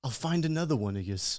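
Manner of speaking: imagined dismissive boss. Acted. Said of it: "And he's like".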